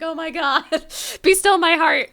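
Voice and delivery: high, giggly mock swoon; playful swoon. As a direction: gush like a smitten fan, laughing. Swoons over actress's deep voice.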